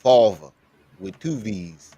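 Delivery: mock a thick New York accent; overdone New York vowels, mimicking him; exaggerated New York accent. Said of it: "Ain't nobody New York accent that fucking strong".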